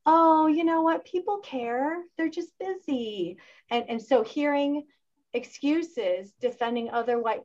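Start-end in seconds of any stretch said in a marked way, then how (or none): 0.0-3.4 mock excuse. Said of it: "And, like".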